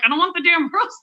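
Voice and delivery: retold annoyed refusal with a laugh; exasperated laughing refusal. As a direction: push the rose away, half laughing. Repeated refusal, rose forced on her.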